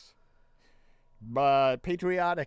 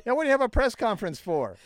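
fast, louder mock outrage; 4 semitones higher, 5 dB louder than usual. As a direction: scoff at a pointless press conference. Mocks the press secretary.

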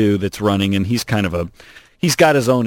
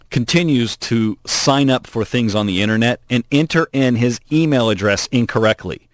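ordinary talk, nothing marked

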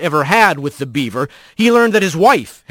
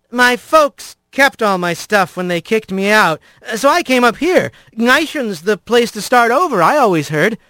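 put-on sly young rat; 5 semitones higher than usual.

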